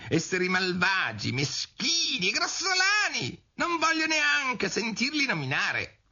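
high, squeaky mouse tirade; squealing disgust, very high pitched; outraged mouse cry. A narrator's reading. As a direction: rant as a tiny indignant mouse. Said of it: "gridò il topo".

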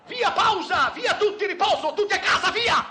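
high, loud barked orders; angry shouting. Retold or imitated. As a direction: clear the stage with yells. Conductor stopping the rehearsal.

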